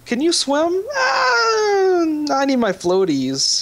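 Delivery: high crying drowning guard; panicked guard voice. Pretend. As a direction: wail like a helpless swimmer. Voicing guard thrown in water.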